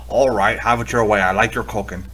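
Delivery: mildly meek, giving-in reply; cowering surrender. Acted. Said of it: "cowering in the corner".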